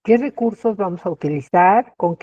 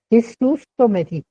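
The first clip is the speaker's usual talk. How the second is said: higher, emphatic cry of fright on Qué; 5 semitones higher than usual. Shown as a demonstration. Teacher acting out a near miss for students, emphatic fright. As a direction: really exclaim it, like the van nearly hit you. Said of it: "de una manera más enfática".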